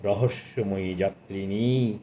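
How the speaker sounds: slow, measured poetry reading with lingering lines; poem recitation. Acted. Reviewer reciting the poet's sonnet to listeners, slow and lyrical. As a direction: recite it like a sonnet to a hushed hall.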